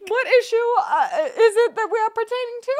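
high, laughing mock of stiff business talk; mocking formal tone. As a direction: tease the stiff wording. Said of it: "mocks the formal phrasing".

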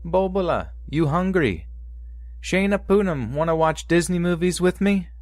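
high, sing-song doting grandmother; grandma voice. Retold or imitated. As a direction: call out sweetly like a grandma. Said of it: "my grandma's voice singing through the kitchen".

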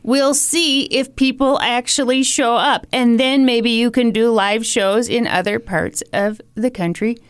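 lightly voiced nagging grandma; guilt tripping grandma. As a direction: lay the guilt on thick, sweetly. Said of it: "here comes a guilt trip from Grandma here".

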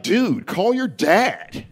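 put-on slow, high, breezy white-girl voice; white woman voice. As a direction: drag out the line with total self-assurance. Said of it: "She was like".

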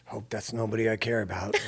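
quiet line through a chuckle; laughing aside. Retold or imitated. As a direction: shrug it off laughing. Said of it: "And I'm like".

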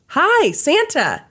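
high, drawn-out friendly call. A narrator's reading. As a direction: call across the bank, slowly. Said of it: "the cashier called out to him".

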